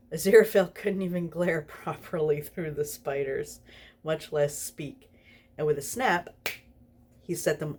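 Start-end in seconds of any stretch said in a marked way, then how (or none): 0.1-3.6 laughing while reading. Real, not acted.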